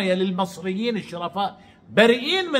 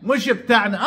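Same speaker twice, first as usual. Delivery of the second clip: mock shout; 5 semitones higher than usual. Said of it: "يقول لك".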